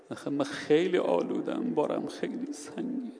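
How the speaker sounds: breaking into a high whisper; confessing burden. Retold or imitated. Musician confesses his sins to the preacher, breaking whisper. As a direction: let the voice crack into a whisper. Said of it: "sinner confesses his burden".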